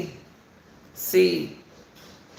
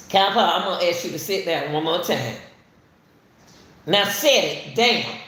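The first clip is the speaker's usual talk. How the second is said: stern warning to dog. Real, not acted. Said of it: "I'm talking to the dog".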